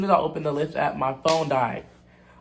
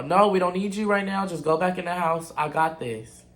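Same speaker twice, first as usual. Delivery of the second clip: firm dismissal; 2 semitones higher than usual. Retold or imitated. Telling him to go back inside, firm and brisk. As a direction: cut him off, no room to argue. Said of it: "This is exactly how I said it".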